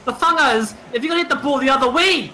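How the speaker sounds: attempted Kiwi accent, slipping toward Scottish. Shown as a demonstration. Player showing mates a Kiwi accent, hammed-up and wobbly. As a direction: have a go at a New Zealand accent. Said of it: "I'll do a Kiwi accent".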